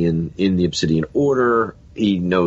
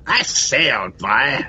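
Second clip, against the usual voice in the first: lightly imitated English old-boy voice; Terry Thomas; 3 semitones higher, slower than usual. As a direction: mimic a mock English gent. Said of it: "doing the Terry Thomas podcast".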